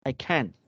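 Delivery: British-style can't with unheard final T. Shown as a demonstration. Teacher showing a student British can't, T dropped. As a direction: say can't without releasing the T. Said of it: "It's British".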